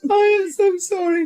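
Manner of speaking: high, giggling sorry; laughing apology. Real, not acted. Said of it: "I'm laughing at all this".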